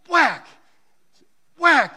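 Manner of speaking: loud, sharp shouted whack. Retold or imitated. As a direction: slam out each whack like a bat hit. Imitating bat strike.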